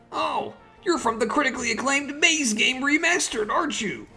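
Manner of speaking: starstruck. Acted. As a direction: gush like a starstruck fan. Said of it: "I'm actually a little starstruck right now".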